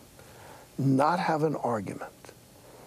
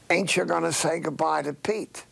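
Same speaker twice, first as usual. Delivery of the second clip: a touch of sweetness, lightly raised; sweetly; 4 semitones higher than usual. Retold or imitated. Old tailor asking his wife to say goodbye, mildly sweet. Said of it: "he said to her sweetly".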